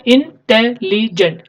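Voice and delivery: इंटेलिजेंट said slowly in four clear syllables; teacher counting the syllables of इंटेलिजेंट; syllable demo. Shown as a demonstration. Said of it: "चार syllable आ रहे हैं".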